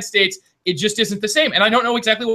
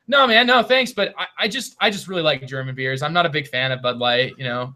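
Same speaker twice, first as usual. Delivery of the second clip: polite friendly decline; 4 semitones lower than usual. Shown as a demonstration. Showing how the beer guy could decline a friend's Bud Light without offending. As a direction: turn the beer down kindly so nobody feels snubbed. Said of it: "What if he said it like this?".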